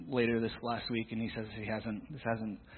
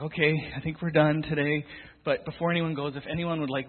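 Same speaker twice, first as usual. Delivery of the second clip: raised voice, higher, to wrap up the group; calling the group to order; 5 semitones higher, 5 dB louder than usual. Retold or imitated. Youth leader loudly calling his small group to stop. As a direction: call out over the noisy room.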